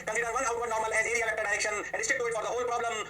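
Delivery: each word spaced for students to note; slow, deliberate note-taking voice; slow dictation. Shown as a demonstration. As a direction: dictate slowly, clearly, like notes.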